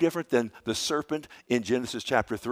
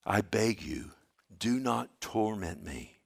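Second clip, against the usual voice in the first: begging demon; 3 semitones lower, 3 dB quieter, slower than usual. Retold or imitated. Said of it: "He's on his knees".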